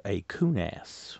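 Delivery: "coonass" drawn out slowly as a new word; word spelled out slowly. Shown as a demonstration. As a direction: say "coonass" slowly, handing over a strange word. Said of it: "a very interesting word".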